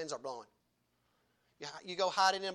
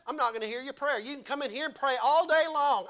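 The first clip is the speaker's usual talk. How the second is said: voicing God; 6 semitones higher, 5 dB louder than usual. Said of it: "you know what God says".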